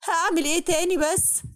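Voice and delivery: سؤال باكي بصوت أعلى ومتغير; تشتكي لأخوها وهي بتعيط; crying plea. Acted. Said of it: "عياطي زاد". (بنت بتعيط لأخوها بصوت مكسور وعالي)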